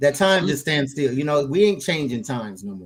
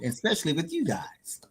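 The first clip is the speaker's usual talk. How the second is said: near-whisper, much softer; soft aside; 7 dB quieter than usual. Real, not acted. Co-host telling the others it's a pleasure, hushed. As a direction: drop it to a hushed, breathy undertone.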